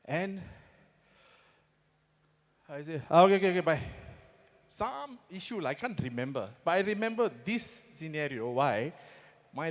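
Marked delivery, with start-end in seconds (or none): 3.1-3.8 hasty phone goodbye. Retold or imitated. Hurrying off the phone.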